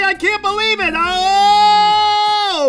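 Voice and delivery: high, stretched words through a yawn; exasperated yawny cry. Acted. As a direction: wail it out mid-yawn. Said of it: "yawning some more".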